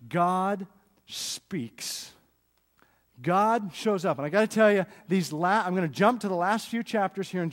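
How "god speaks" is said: hushed whisper for the reveal; breathy awed whisper; dramatic whisper. Acted. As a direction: drop to a whisper on God's entrance.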